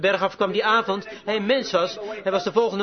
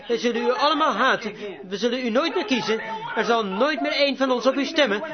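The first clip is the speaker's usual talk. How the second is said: mildly raised crowd reproach; retold jeering; 3 semitones higher than usual. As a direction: hurl the townspeople's threats at the judge, restrained. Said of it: "ze jouwden hem uit". (licht verwijtend nagedaan)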